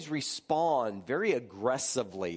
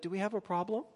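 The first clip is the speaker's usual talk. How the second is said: softer, genuinely asking "Do we have a problem?"; gentle honest question with a rise on "problem"; innocent question; 6 semitones higher, 4 dB quieter, much faster than usual. Shown as a demonstration. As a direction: ask "Do we have a problem?" kindly, no edge. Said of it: "because she might have said".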